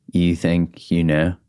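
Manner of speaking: put-on butchered Australian accent, drawn out slowly; slow, clumsy go at an Australian accent. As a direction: badly attempt an Australian friend's accent. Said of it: "in his Australian accent, which I'm about to butcher".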